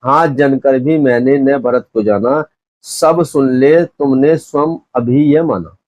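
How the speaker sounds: measured, lightly drawn-out poem reading; verse recitation. Acted. Teacher reciting a verse to students before explaining it, measured recitation. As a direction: recite it with lingering line endings.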